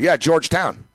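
lightly imitated dude saying Georgetown; a hint of laid-back dude on Georgetown; the speaker as a dude. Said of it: "he's saying like a dude".

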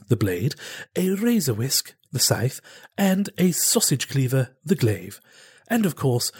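lightly voiced TV pitchman; home shopping host. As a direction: sell the knife set like late-night TV. Infomercial pitch in sketch.

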